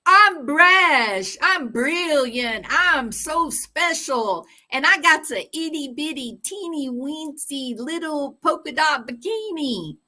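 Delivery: high mocking sing-song brag; high, sneering show-off voice; mocking Proudfoot. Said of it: "Chris just mouth".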